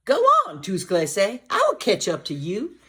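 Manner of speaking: high, loud piglet voice; squeaky little pig. Acted. Teacher voicing the pig Tous Clair.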